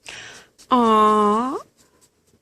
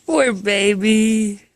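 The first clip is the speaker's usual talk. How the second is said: cooing sympathy; 3 semitones lower, 5 dB louder, much slower than usual. Real, not acted. Cooing to a tired cat.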